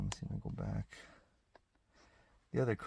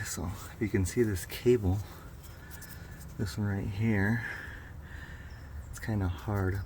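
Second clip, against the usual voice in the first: talking while lying under a car; 4 dB louder than usual. Real, not acted. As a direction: speak from flat on your back under a car. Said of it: "so I'm under the car now".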